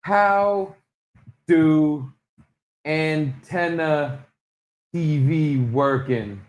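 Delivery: slow, halting caveman query; dumb search query voice. Acted. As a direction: sound out each word dimly. Slow mock Google query.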